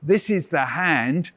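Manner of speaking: slow, deliberate poem line; slow recitation. Shown as a demonstration. Teacher reciting a poem line for children to repeat. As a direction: say it slowly for the class to echo. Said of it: "You fire it back at me".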